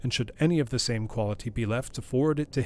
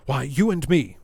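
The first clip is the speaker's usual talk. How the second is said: undaunted; 3 semitones higher, 7 dB louder than usual. A narrator's reading. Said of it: "the undaunted reply".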